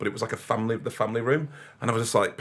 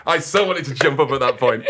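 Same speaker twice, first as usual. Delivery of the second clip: said through laughter, a bit louder; laughing; 3 semitones higher, 5 dB louder than usual. Real, not acted. Telling co-host about the derby, laughing.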